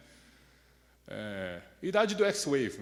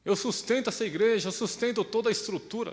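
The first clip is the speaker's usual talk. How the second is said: resentful boast; 4 semitones higher than usual. Retold or imitated. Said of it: "a pessoa chega a essa conclusão".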